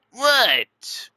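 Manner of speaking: sharp high What?; a startled squeak of a What?; surprised. Acted. Surprised reaction to being looked at.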